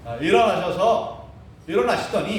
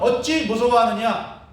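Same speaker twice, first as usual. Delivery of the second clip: reproach, retold; 3 semitones higher, 4 dB louder than usual. Jesus chiding the fearful disciples, imitated reproach. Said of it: "책망을 하는 거죠".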